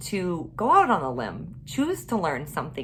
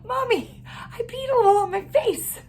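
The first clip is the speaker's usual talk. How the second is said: put-on little girl voice; 3 dB louder than usual. Mother voices daughter, laughing.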